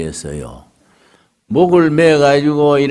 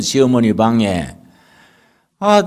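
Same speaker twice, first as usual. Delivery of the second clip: usual speaking voice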